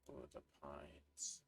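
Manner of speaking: low, slow mock-awed "Ooh, the pines"; deep drawn-out ooh. Gamer admiring the pines on the map, slow deep mock voice. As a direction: drop way down and stretch it out.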